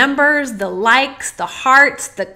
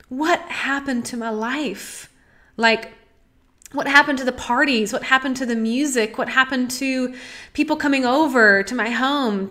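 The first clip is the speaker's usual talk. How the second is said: emotional, near tears. Real, not acted. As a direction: let the grief catch in the voice as you ask. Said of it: "I'm gonna get emotional as I say this".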